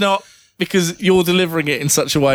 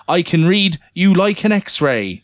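a slow, lightly Cornish reading; Cornish accent; 3 semitones higher than usual. Pretend. Reviewer's line read in a light Cornish accent. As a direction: slip into a faint Cornish lilt. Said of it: "I don't know why I've gone Cornish now".

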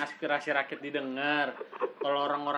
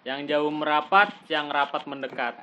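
snake oil seller. Acted. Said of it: "kayak tukang obat lu".

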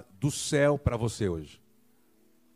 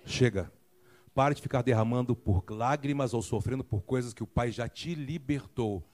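softer, lower, tender voice of the Father; gentle Father; 3 semitones lower, 4 dB quieter than usual. Retold or imitated. Preacher voicing God freeing the listener, soft tender voice. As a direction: speak it like a comforting father. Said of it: "É o Pai dizendo assim".

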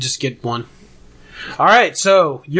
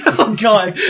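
exclamation; 5 semitones higher than usual. Real, not acted. Reacting to a laugh.

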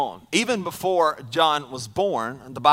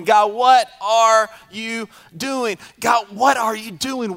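pleading; 4 semitones higher, slower than usual. Retold or imitated. Repeated pleading prayer.

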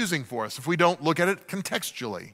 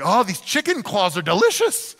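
fake delight.

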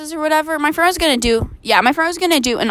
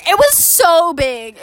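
SO drawn out slowly; emphatic exaggeration; 3 semitones higher, slower than usual. Real, not acted. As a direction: stretch "so" to show the size. Exaggerating horse's size in story.

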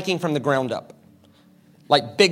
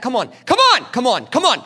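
loud, raised, rapid-fire taunts; goading; 5 semitones higher, 4 dB louder than usual. Acted. Tormentors daring Jesus to strike, loud goading. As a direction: egg him on insistently.

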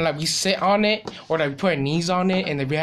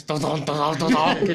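mock sound effects. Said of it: "his sound effects".

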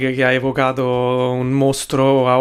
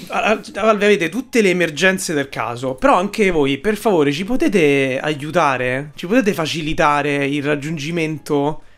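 emphatic italian speech. Pretend. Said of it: "io sto gesticolando in maniera ampia".

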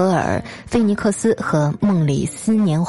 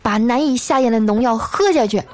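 higher-pitched rousing finish; impassioned pep talk; 5 semitones higher than usual. Acted. Colleague advising a despairing friend, mock-impassioned. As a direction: keep the stirring speech going through the punchline. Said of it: "慷慨激昂地说".

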